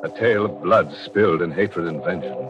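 teasing, ominous radio host; spooky host intro. Acted. Host luring listeners into the story, ominous tease. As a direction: draw the listener in with mock menace.

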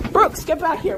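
calling out. Real, not acted. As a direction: call them back firmly. Calling after runaway Brooks.

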